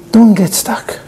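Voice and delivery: hushed whisper of Don't get stuck; whispered refrain. Real, not acted. Rabbi whispering the lesson to his congregation. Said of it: "sermon refrain whispered".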